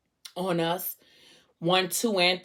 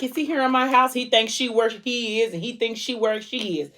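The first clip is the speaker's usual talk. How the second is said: higher-pitched, mildly panicked retelling; mock freaking out; 5 semitones higher than usual. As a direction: raise the pitch in pretend alarm. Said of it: "now she freaking out too".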